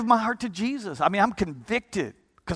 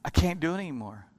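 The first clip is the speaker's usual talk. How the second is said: hushed confession; 6 semitones lower, 8 dB quieter than usual. Retold or imitated. Explaining to friend quietly.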